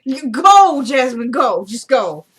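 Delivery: high, drawn-out impatient order; real exasperation, high then dropping; exasperated shooing. Real, not acted. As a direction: shoo them off, pitch up and insistent. Shoos Jasmine away mid-recording.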